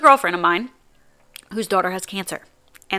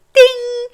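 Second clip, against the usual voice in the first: mock ding; 5 dB louder than usual. Imitating app sound.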